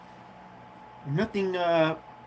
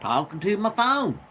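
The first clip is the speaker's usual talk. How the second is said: lightly raised, bouncy vlog greeting voice; put-on high chirpy voice; 5 semitones higher than usual. Shown as a demonstration. Vlogger greeting his viewers in a mock perky higher voice. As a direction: play a perky little host voice. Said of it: "Imagine if I talked like that all the time".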